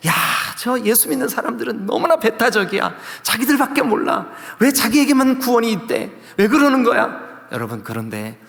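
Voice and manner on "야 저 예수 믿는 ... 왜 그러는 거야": high-pitched, mock-outraged grumbling; acted indignant complaint. The world criticizing believers as exclusive, acted indignation. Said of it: "세상은 우리 보고".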